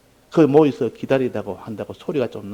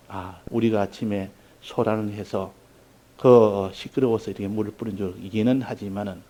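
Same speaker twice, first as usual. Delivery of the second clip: kindly retold request; 2 semitones lower than usual. Preacher voices a mourner excusing the noisy morning, kindly. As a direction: ask gently, with hesitant pauses. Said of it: "좋게 이렇게 하고 말았어요".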